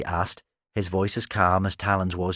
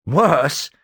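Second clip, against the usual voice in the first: snorting scorn; 7 semitones higher, 7 dB louder than usual. Acted. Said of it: "Talon snorted at her".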